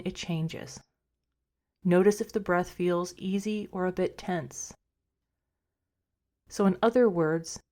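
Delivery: calm, unhurried meditation guide with long pauses; guided meditation. Acted. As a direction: gently talk listeners into rest, a little softly. Leads a meditation.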